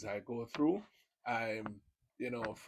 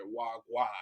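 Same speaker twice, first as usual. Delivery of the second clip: Jamaican greeting. Shown as a demonstration. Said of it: "they like when Jamaicans speak".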